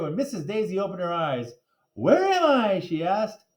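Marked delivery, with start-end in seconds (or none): 1.9-2.8 dazed. A narrator's reading. Teacher waking confused.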